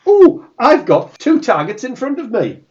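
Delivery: high eager beast voice; gleeful monster voice. Acted. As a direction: relish it like a hungry monster. GM voicing the beast.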